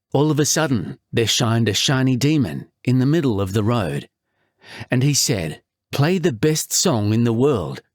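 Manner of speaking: a touch of movie-trailer storyteller; dramatic voiceover. Acted. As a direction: narrate it like a tall tale, unhurried. His own voiceover read of lyrics.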